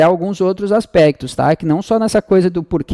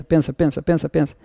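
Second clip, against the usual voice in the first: softly urging them to think; a hushed teasing nudge to the class; quiet prompting; 6 dB quieter than usual. Shown as a demonstration. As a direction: drop the voice and coax, pensa, pensa. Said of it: "Vai lá, pensa".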